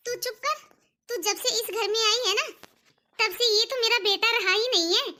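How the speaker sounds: cutting someone off in moderate anger; mother-in-law's irritated rebuke; angry scolding. Acted. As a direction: scold the daughter-in-law, building in force. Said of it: "पायल पे चिल्लाना तो बंद करो".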